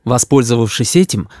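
plain reading voice

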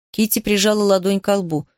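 ordinary delivery, nothing marked

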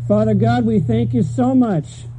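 steady, earnest prayer to close the sermon; closing prayer. Acted. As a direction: pray over the congregation, unhurried near the end.

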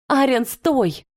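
urgent call to stop. A narrator's reading. Valeria shouts at the beast to stop. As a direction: cry his name to halt him. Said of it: "закричала Валерия".

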